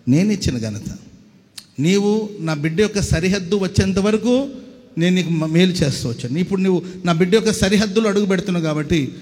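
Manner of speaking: booming divine threat, building loud; God rebuking Ashur. Retold or imitated. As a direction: roar it like God turning back an enemy king. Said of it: "ఆడేడాడు".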